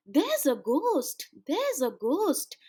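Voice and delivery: slow, frightened cry of alarm; scared shout. Acted. Children shouting in fear at the ghost, slow scared cry. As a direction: call it out in terror. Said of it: "Everyone shouted".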